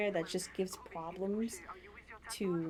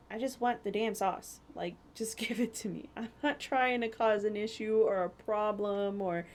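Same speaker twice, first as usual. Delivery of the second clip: exasperated plea; 3 dB louder than usual. Retold or imitated. Retold pleading with cashier.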